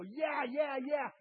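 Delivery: high, loud eager yeahs; hammed-up churchy agreement; mock enthusiasm. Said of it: "we go".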